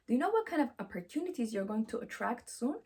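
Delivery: ordinary talk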